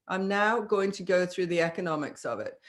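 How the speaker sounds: flat, matter-of-fact announcement; dry, even delivery of the money talk; neutral businesslike statement. Retold or imitated. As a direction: state it without selling. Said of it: "that's exactly how he says it".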